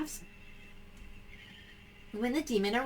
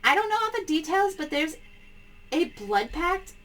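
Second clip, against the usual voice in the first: panicked caller; 3 semitones higher than usual. Acted. Caller explains urgently.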